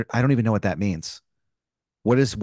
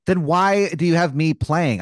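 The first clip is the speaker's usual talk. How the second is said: higher and slow, incredulous; exasperated protest; 4 semitones higher, slower than usual. Real, not acted. Pat protesting to the warden, slow and higher. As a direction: drag out the disbelief.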